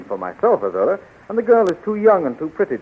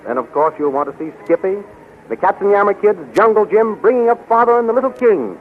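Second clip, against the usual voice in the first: raised, upbeat announcer pitch; radio ad read; 8 semitones higher, 4 dB louder than usual. Acted. Announcer tells listeners to buy the Comic Weekly, upbeat pitch. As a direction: sell the Sunday comics brightly. Sponsor ad read over music.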